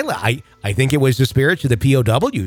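lightly voiced Wisconsin local; Wisconsin accent. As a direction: gossip in a put-on Wisconsin accent. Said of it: "right accent for the right area".

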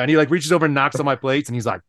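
ordinary talk, nothing marked

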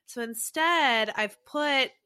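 talking with tissue stuffed up nose. Real, not acted. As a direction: speak with tissues plugging both nostrils. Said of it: "I've put, like, two pieces of, uh, tissue up my nose".

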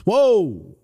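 loud, high, drawn-out mock recoil; doctor's shock. Doctor looking into the patient's ear, exaggerated shock. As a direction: imitate a doctor startled by what he sees. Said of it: "He puts it in my ear and goes".

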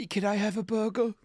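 put-on high-pitched old-time New York accent; 1930s New York accent. Hungry New Yorker asking a man who smells of beef, 1930s New York accent. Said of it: "people sounded like in, uh, nineteen thirties".

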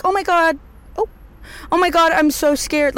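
high-pitched hammed-up fright; mock panic. Imitating someone who makes a commotion, mock panic. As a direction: play the over-dramatic scaredy type. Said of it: "I am not the type to, like".

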